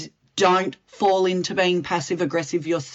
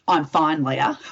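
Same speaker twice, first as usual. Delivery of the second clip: mildly acted passive-aggressive reply; a touch of mock passive aggression; passive-aggressive denial; 4 semitones lower than usual. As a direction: brush off the concern, lightly put on. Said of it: "if you're very passive aggressive, you'll probably say to me".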